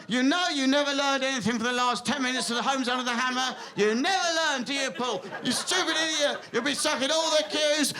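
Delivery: lightly voiced scolding inner voice, building to shouts; nagging inner critic. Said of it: "who would need a voice inside them that says".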